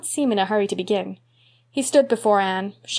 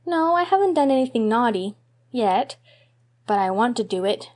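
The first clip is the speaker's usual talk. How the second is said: put-on little boy voice; 3 semitones higher than usual. Davy confesses.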